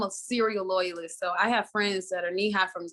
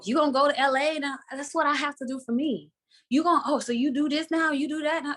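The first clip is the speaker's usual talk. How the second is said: questioning relatives; 4 semitones higher than usual. Retold or imitated. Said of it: "family members when they would be like".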